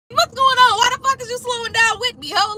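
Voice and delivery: why are you slowing down on me; exasperated question. Retold or imitated. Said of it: "voicing her own reaction".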